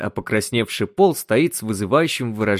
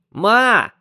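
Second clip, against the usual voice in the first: loud, higher shout of mom; yelling; 13 semitones higher, 5 dB louder than usual. Acted. Son yelling to rouse his mother, loud shout. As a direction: yell it to wake her. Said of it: "орал Пол".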